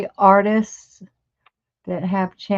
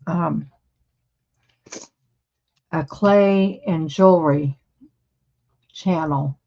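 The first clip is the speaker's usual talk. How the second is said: chewing while talking; mouth full. Real, not acted. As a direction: talk through a mouthful of crackers. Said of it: "I'm chewing and trying to talk".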